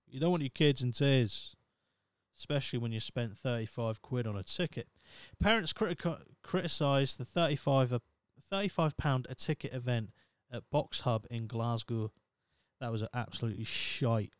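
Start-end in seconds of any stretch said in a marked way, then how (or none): 5.4-12.1 put-on Scottish accent. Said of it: "shite accent".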